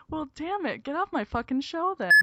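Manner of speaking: playful outburst, pitched high; hammed-up annoyance; mock outrage. Playfully kicks listeners off show.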